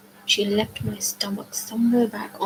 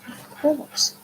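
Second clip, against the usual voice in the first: screamed; 6 semitones higher than usual. A narrator's reading. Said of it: "screamed Anger".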